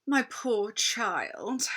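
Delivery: slow, syrupy sweet queen; a cold queen feigning kindness; Queen softening. Acted. Queen coaxes a frightened boy, slow and sweet.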